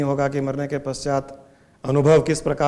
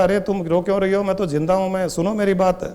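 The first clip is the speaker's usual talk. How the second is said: higher-pitched insistent appeal; lightly acted plea to be heard; urgent pleading; 3 semitones higher, faster than usual. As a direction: plead that they listen. Dead man pleads with his wife.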